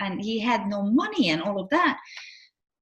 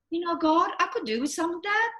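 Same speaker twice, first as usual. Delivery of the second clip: wistful prayer; 7 semitones higher than usual. Retold or imitated. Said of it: "and I'm going".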